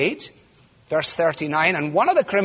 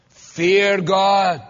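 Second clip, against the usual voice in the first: "Fear God" said firm and louder; emphatic answer; 4 dB louder than usual. Acted. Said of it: "What brought it about?".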